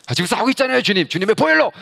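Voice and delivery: high, loud whiny complaint; exasperated protest. Retold or imitated. Pastor protests to the Lord, high and exasperated. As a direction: protest that he is already fighting.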